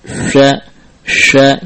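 "sya, sya" with whistle on the SH; wrongly whistled. Shown as a demonstration. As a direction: add whistling to both "sya, sya". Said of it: "Bukan sya". ("sya, sya" salah dengan sofir)

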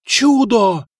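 loud, high cry of rapture; ecstatic shout. A narrator's reading. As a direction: yell it like a miracle just hit you. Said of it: "восторженно заорал тот".

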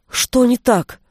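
worried. A narrator's reading. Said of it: "спросил взволнованно Милош".

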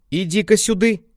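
high, loud village granny voice; old grandma calling. Acted. Grandma summons Lenka to her, high granny call.

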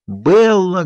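a father calling his daughter from a distance; calling out from afar. A narrator's reading. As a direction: shout her name across the yard. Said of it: "где-то вдалеке кричал он".

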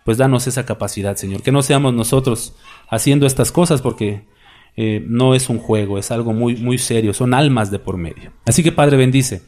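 fervent closing prayer, Señor at phrase ends; earnest prayer. Acted. Pastor praying for his congregation, earnest prayer voice. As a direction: pray over the congregation with devotion.

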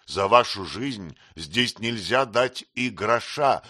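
usual speaking voice

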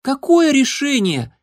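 very high, slow, tiny squeak; a curious little kitten piping up from above; thin, high kitten's question; squeaky kitten voice. Acted. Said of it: "пропищал ... тоненький голосок".

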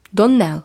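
Доннелл stressed on the final syllable, нЕЛЛ; Доннелл firmly, last syllable hit. A narrator's reading. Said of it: "з наголосом на останньому складі".

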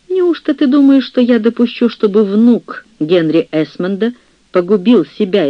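scornful rebuke. Acted. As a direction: lash out at her niece. Baroness rebuking her niece.

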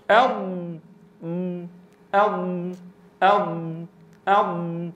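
أض with the air building and stretching forward; correct elongated dad. Shown as a demonstration. Teacher showing students the correct ض. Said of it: "أنا الآن آتي بذات الكيفية".

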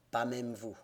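low grumbling refusal; grumbled. A narrator's reading. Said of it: "grogna et dit".

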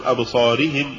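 quick imitated version of أبصارهم; first reading. Shown as a demonstration. Interviewer quotes readers to the doctor, imitated أبصارهم. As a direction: say أبصارهم briskly as some people do. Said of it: "في ناس يقول".

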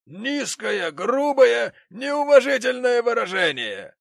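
high, loud, slow building outrage; outraged gentleman. Acted. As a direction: spit out the insult in horror.

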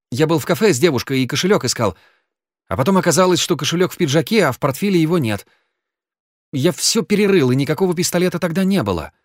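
nervous rapid babble; hurried excuse. A narrator's reading. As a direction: gabble the explanation anxiously. Genka rushing his excuse.

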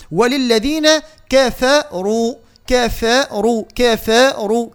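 slow drill of كفروا, light "ke-fe" and heavier "ruu"; measured tajweed drill on كفروا; each letter its due. Shown as a demonstration. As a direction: repeat كفروا in drawn-out, careful syllables. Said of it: "كل حرف نعطيه حقه ومستحقه".

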